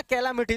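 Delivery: कैलामिटी with every syllable spelled out in sound; careful pronunciation. Shown as a demonstration. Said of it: "कैलामिटी शब्द ऐसे बोलोगे ना". (कैलामिटी हर अक्षर साफ़)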